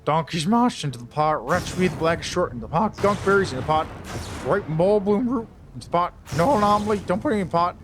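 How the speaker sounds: slurred mumble. Acted. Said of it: "mumbling is like a verbal slush".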